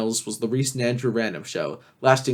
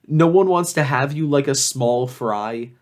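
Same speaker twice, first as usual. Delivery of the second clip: slow, unimpressed reading of the lyric; mocking read; slower than usual. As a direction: read it back with disdain. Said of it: "The lyrics are also just so basic".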